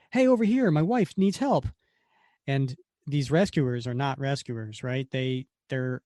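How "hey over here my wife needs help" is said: mock shout for help, pitched up; man shouting for help for his wife; calling for help. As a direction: call out over the chaos to the rescuers. Calling out to rescuers.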